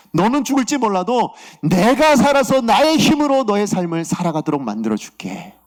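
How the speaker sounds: impassioned promise as God, building and then settling; fervent preacher voicing God's pledge. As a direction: swell into a high declaration, then ease down. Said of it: "그렇게 말씀하시더라고요".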